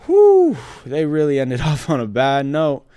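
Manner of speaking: mock stunned reaction. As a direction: play the let-down fan who can't believe it.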